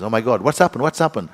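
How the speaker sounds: lightly acted alarm, pitch climbing. Hostess answers her friend's yell, mildly alarmed. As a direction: ask in a retold mild panic.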